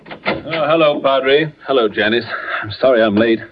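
arriving winded; out of breath. Acted. Doctor arrives late to greet vicar and daughter, out of breath. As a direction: greet them while catching your breath. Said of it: "You seem a good deal out of breath".

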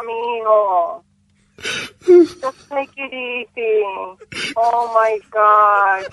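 slow, choked-up soothing; a friend fighting tears while comforting; tearful comfort. Real, not acted. Consoling grieving friend. (consuelo entre lágrimas)

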